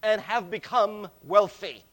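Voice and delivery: proud boast. Retold or imitated. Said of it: "you say".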